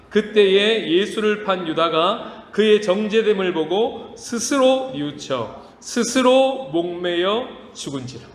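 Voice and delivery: slow, even reading of the verse; slow scripture reading. Shown as a demonstration. Pastor reads Judas verse with congregation, slow and measured. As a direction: read it out slowly and deliberately. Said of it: "시작".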